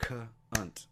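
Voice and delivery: two separate beats: «C-» and «unt»; sounding out syllables. Shown as a demonstration. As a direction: clap out «C-», pause, then «unt». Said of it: "Sound out the syllables".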